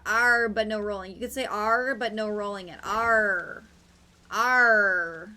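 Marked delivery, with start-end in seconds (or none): 2.8-5.3 "R." growled from the back of the throat, louder; a guttural R rumbled deep in the throat; throaty R. Shown as a demonstration. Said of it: "That's in the back of my throat".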